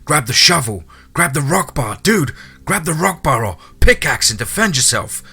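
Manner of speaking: high, urgent shouted commands; screaming. A narrator's reading. Hunter screams at fleeing man to grab a tool, urgent high shouting. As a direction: shout urgently to make him fight back. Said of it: "I started screaming right back to the man".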